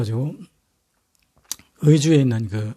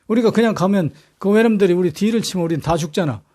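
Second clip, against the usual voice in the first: a brusque scolding, slightly raised; frowning retort; 2 semitones higher than usual. Retold or imitated. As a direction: snap back at the complaint, mildly annoyed. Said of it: "이순신이 막 인상을 걷어붙이고".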